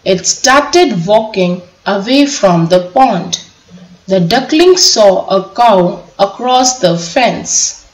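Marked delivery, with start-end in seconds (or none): none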